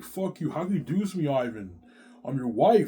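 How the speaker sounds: high mock indignation; wronged angry wife. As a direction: imitate a wife confronting her cheating husband. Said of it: "she gives me hell".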